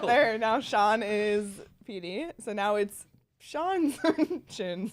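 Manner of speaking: slow mock documentary narration; lightly played nature-documentary narrator. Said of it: "give us your best narrator voice".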